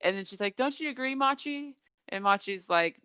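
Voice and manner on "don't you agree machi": put-on high girlish voice seeking agreement; lightly mocked girlish appeal; imitated girl. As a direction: pitch it up like a keen girl. Retold girl prompts her friend.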